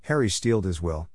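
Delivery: ordinary delivery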